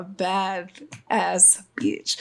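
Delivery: breathy whispered aside, slow. Real, not acted. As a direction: whisper it like a secret brag. Quoting lyric feeling.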